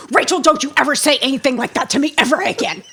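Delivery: fast mock scold, laughter leaking through; a mother trying to scold but cracking up; scolding while laughing. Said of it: "my mom".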